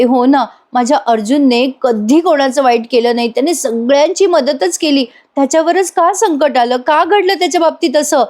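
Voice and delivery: high-pitched, pleading lament; anguished lament. Retold or imitated. Asmita asking why trouble struck Arjun, anguished lament. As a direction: question fate in a rising, distressed voice. Sister laments her brother's misfortune.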